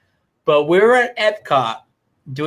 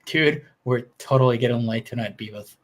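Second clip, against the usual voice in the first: lightly voiced low cartoon slacker; a low, slightly put-on dumb cartoon voice; Beavis and Butthead; 4 semitones lower, 3 dB quieter than usual. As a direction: do a hint of a dim teen cartoon buddy, pitched down. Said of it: "I used to love Beavis and Butthead".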